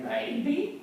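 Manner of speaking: high coy maybe. Retold or imitated. Teen answering a crush on the date, high and coy. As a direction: tease it coyly upward.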